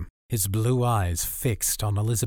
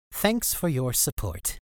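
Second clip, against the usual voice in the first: whiny voice; 3 semitones higher, slower than usual. Acted. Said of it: "his whiny voice still grating".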